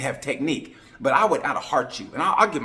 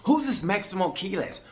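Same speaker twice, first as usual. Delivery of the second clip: mock clueless fan; 8 semitones higher than usual. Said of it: "if you guys hit me up and go".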